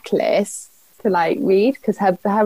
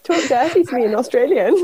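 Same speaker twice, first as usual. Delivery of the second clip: higher, quick cheeky echo; teasing mock plea; 5 semitones higher, faster than usual. Host teasing guest about her husband's accent, teasing mock plea. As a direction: parody a lover's request, high and quick.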